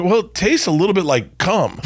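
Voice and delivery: put-on high, hesitant girly voice; mock young girls. Young girls at sushi judging bone marrow, high hesitant voice. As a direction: play it like unsure young girls. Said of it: "they go".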